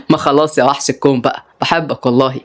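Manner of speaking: lightly voiced, coaxing; tender young man. Rayan sweet.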